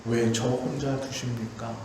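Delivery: low, slowing, lonely plea; plaintive lament. Retold or imitated. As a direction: murmur the prophets' lament. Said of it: "라고 부르짖습니다".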